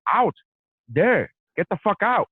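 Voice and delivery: customs agent barking, high and loud; retold yell. Customs officer ordering him out, high loud shout.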